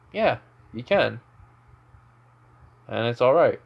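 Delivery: talking around something in the mouth; something stuck in the teeth while talking; mouth full. Real, not acted. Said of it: "something weirdly in my mouth".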